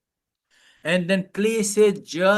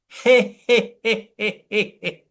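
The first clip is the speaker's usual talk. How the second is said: a light he he giggle, fading away; hee hee laugh; 3 semitones higher than usual. Shown as a demonstration. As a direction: giggle he he for the class. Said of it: "And you go".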